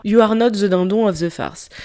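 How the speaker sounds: put-on a light English accent on French-mixed words; playful English accent, barely changed. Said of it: "J'ai pris mon meilleur accent anglais".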